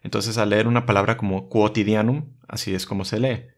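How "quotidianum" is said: quotidianum as kwo-ti-di-a-num, U not silent; Latin QU with the U sounded. Shown as a demonstration. Teaching Latin QU, U never silent. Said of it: "se pronuncia como Q".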